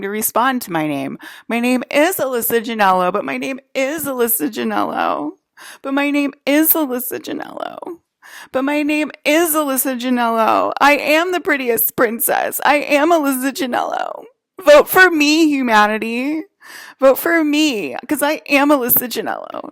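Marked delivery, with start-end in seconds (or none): 1.5-14.2 a lightly prissy mimic, a touch higher, sing-song claim; mildly mock the impostor insisting on her name; mock clone voice. Mimicking the clones who claim her name, lightly mock prissy voice. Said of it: "You sound like a psychopath". 14.6-19.7 a lightly prissy mimic, a touch higher, sing-song claim; mildly mock the impostor insisting on her name; mock clone voice. Mimicking the clones who claim her name, lightly mock prissy voice. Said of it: "You sound like a psychopath".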